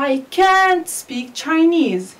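can't stressed and high, slow; strong can't. Shown as a demonstration. Teacher models stressed can't for the class. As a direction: lean on can't in the sentence. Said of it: "Here we say".

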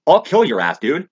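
loud, high, hammed-up yell at a cop; retold shout of abuse at the cops; acted yell at cops. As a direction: bark it at the cop like you're daring him. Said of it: "It's like".

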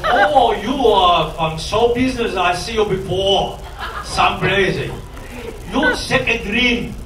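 slow, mock Chinese-accented English; drawn-out imitation of a Chinese man's accent. Chinese man greets a comic he recognizes, mock Chinese accent. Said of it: "a China guy says to me".

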